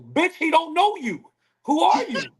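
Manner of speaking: high-pitched, incredulous comeback; exasperated retort. Acted. Man retorting to woman who brings only herself, exasperated. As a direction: challenge her, voice shooting up.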